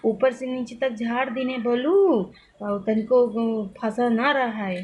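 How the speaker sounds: lightly voiced old mother-in-law in rural Awadhi dialect; a hint of the old lady's village Awadhi speech; mother-in-law in local dialect. Imitating her mother-in-law asking in Awadhi dialect to oil her hair. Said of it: "मैं इस तरह की language बोल रही हूँ".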